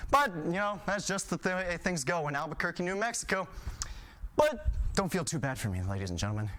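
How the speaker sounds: ordinary delivery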